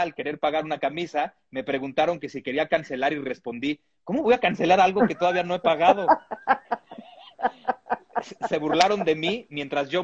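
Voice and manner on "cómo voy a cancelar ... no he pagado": quick, mildly indignant retort; retold indignant question, fast. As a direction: protest it in a rush, acting a little affronted. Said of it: "muy indignado".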